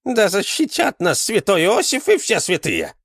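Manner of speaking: loud frightened cry to the saints, pitched high; old man crying out in alarm; exclaiming. A narrator's reading. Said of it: "воскликнул он". (громкое испуганное восклицание)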